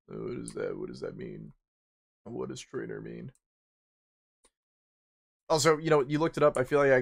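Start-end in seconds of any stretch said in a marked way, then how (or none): 0.1-1.5 mock baffled. Baffled reaction to trainer.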